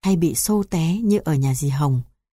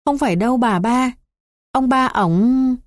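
protesting; 7 semitones higher than usual. A narrator's reading. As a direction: argue back against a false accusation, cut short. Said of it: "tôi cãi lại". (giọng cãi lại, cao và kéo dài)

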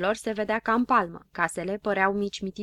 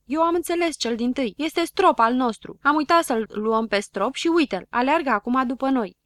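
loud, eager explanation; excited shouting; 4 semitones higher, 6 dB louder than usual. A narrator's reading. Habar n-am explains the spot to everyone, excitedly. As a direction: announce the discovery proudly. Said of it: "începu să strige dintr-o dată".

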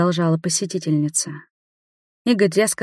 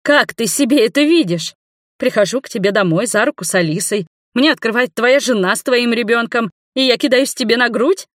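heated shout; 6 semitones higher, 4 dB louder than usual. A narrator's reading. Nina keeps shouting at Igor.

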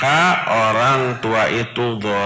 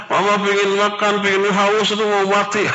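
put-on whiny child; 6 semitones higher than usual. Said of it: "Akhirnya pura-pura".

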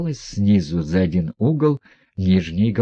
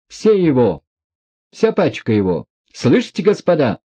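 proclaiming; 5 semitones higher than usual. A narrator's reading. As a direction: announce it to the whole room. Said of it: "провозгласила Настасья Филипповна".

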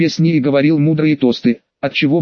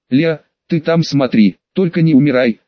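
put-on sniffling drunk. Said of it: "всхлипнул он".

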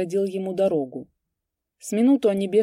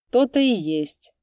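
slow, rueful sigh; 5 semitones higher, 6 dB louder than usual. A narrator's reading. Vaska sighing over the trouble, rueful. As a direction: sigh it regretfully. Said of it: "сокрушенно вздохнул Васька".

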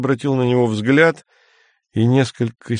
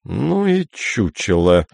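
disgusted; slower than usual. Acted. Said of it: "сказал полковник брезгливо".

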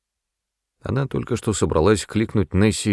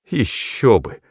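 higher, bitter retort; bitter exclamation; 5 semitones higher, slower than usual. A narrator's reading. Agnes bitterly exclaims to the mother, a touch higher. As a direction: spit it out with bitterness. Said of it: "с горечью воскликнула Агнес".

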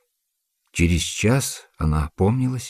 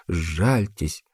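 softer, breaking сжальтесь as tears come; a second, quieter сжальтесь on the edge of sobs; fading tearful plea; 2 semitones lower, 5 dB quieter than usual. A narrator's reading. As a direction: let the repeated сжальтесь dissolve into crying. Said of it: "Она заплакала".

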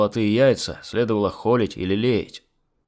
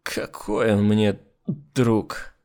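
put-on drunk hiccup; much slower than usual. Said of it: "икнул Сергей".

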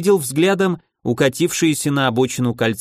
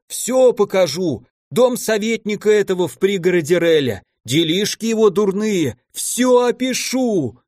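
howling in panic; 6 semitones higher than usual. A narrator's reading. The terrified merchant howls promises to his captor. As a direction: scramble to offer everything, voice cracking up. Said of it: "взвыл караванщик дурным голосом".

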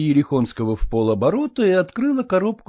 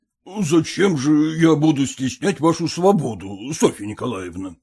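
put-on stiff elderly suitor. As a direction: recite the proposal like a form. Erekhonsky voiced.

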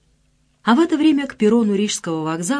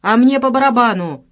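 louder thug's bark; 5 semitones higher, 6 dB louder than usual. A narrator's reading. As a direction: bark it at her. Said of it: "гаркнул на неё самый длинный".

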